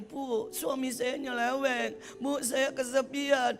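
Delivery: slow whiny complaint; mock whining. Congregant whining to the pastor about troubles. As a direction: drag out the self-pity. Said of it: "Kalau ada orang gini".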